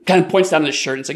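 ordinary talk

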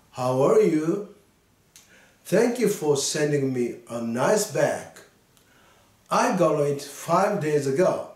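slow, careful read-aloud for learners; slow model reading. Shown as a demonstration. Teacher reading a letter aloud to students, slow and clear. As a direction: read each English line slowly and clearly. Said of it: "二回目です".

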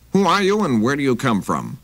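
a touch of a gruff hostess; big lady voice. Acted. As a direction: demand it like a wary housewife. Big lady's voice.

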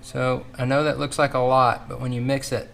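talking through a face mask; muffled voice behind a mask. Real, not acted. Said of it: "sorry for the muffled tones because I've gotta wear this, this mask".

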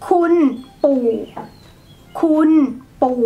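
คุณ level at mid pitch, ปู่ pushed down low; mid then low tone. Shown as a demonstration. Teacher drilling two tones, mid คุณ then low ปู่. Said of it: "like this".

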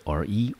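"re" sounded out on its own; the syllable "re" demonstrated by itself. Shown as a demonstration. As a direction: say "re" as a separate first syllable. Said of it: "我们念成re".

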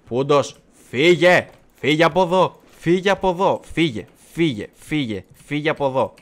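insistent loud shoo; shooing away. Real, not acted. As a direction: chase the intruder off out loud. Chasing away Puntos in game.

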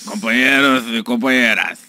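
lisping Lula voice; slushy sh for s. Retold or imitated. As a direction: say it with a tongue-tie lisp. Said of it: "língua presa".

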